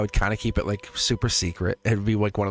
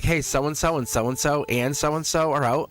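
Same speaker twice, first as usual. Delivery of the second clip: higher, slow listing voice; imitated colleague's report; 5 semitones higher, slower than usual. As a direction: imitate someone reeling off absent names. Retelling school staff announcing absences.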